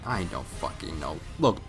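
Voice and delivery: ordinary delivery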